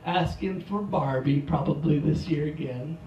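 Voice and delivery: ordinary talk, nothing marked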